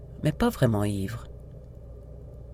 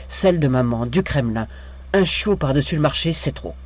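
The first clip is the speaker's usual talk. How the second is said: near tears. Acted. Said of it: "des larmes inattendues lui montaient aux yeux".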